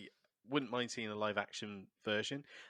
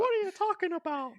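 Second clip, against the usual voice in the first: squeaky puppet voice; 9 dB louder than usual. Acted. Keeps the puppet voice going.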